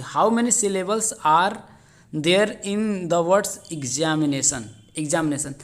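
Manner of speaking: drawn out, word by word; slow dictation. Shown as a demonstration. Teacher starting to read the syllable question, slow dictation. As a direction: spell out the question slowly. Reads exam question aloud.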